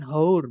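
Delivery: "hour" wrongly begun with a breath of H; wrong sounded H. Shown as a demonstration. Teacher showing students what not to say, "hour" with an H.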